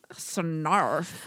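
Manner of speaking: silly Rich Dicks voice; Rich Dicks accent. Retold or imitated. Host imitates the sketch characters, silly Rich Dicks accent. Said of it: "crazy voice they do".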